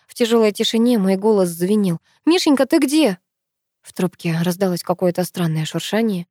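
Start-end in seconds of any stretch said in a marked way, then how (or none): 2.2-3.2 high, urgent question; desperate plea. A narrator's reading. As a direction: beg to know where he is. Desperate call into phone.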